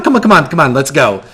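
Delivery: eager urging, coming down in pitch; Gal urging you on. Acted. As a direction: hurry them along, still excited. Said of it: "And Gal goes".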